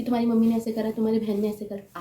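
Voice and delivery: accusing tone, pointing at their family; blaming quote. Shown as a demonstration. Wife showing how a spouse blames in-laws, mildly accusing. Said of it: "आप ऐसे क्यों बोल रहे हो कि".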